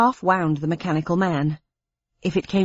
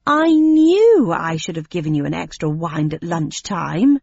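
loud; 5 dB louder than usual. Acted. Bold bluff before the crowd.

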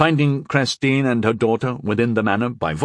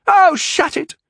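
angry snap; 7 dB louder, slower than usual. A narrator's reading. Mother silencing daughter.

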